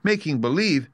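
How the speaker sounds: high, incredulous echo; crying out. Acted. Dorothy challenging the wizard's confession, crying out. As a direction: exclaim in disbelief. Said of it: "cried Dorothy".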